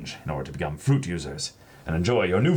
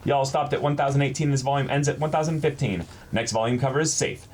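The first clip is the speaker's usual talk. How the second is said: lightly upbeat reading voice, higher; bright letter read-aloud, a touch faster; reading a fan letter; 7 semitones higher than usual. Retold or imitated.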